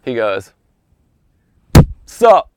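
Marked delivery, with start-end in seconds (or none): 2.0-2.5 sudden high, punchy shout; loud challenge. Retold or imitated. Golfer with arms out challenging O J, loud. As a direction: throw it out as a one-word dare.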